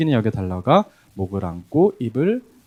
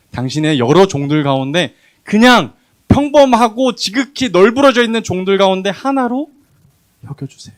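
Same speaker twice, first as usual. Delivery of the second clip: pleading son; 5 semitones higher, 7 dB louder than usual. Acted. Prodigal son begging his father to take him as a servant. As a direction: act out the son's plea, begging to be a servant.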